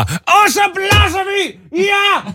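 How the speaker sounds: shrieked, drawn-out mock German accent. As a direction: cheer them on like an over-keen German nurse. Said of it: "hon pratade lite så här med tysk accent".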